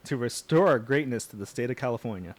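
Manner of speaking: put-on Southern candidate reading; earnest mock Southern accent. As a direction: read it out like a Southern politician. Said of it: "like, a convincingly southern accent".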